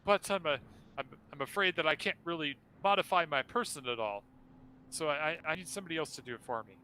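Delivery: high, grand, theatrical ghostly host; flaming skull voice. Acted. Skull pleads politely.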